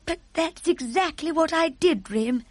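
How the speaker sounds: astonished queen, pitched high; crying out. A narrator's reading. Queen recognises her dream, crying out in amazement. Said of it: "the Queen cried out".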